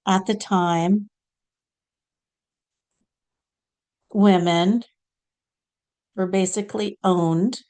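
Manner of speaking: lightly voiced saint, short phrases with long pauses; Saint Clare. Channelled saint telling listeners about her early life, measured and halting. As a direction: recount it deliberately as a channelled saint. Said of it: "now we're gonna hear from Saint Clare".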